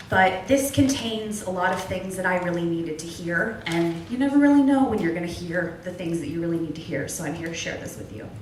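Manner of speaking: a solemn quotation, read to the room; reciting a quote. Acted. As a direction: read it out like a text you treasure. Reads a quote aloud.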